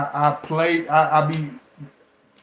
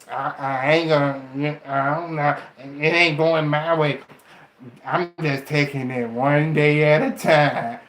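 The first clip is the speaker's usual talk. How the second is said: defeatist mumble; 3 semitones lower than usual. Retold or imitated. Mocking a defeatist.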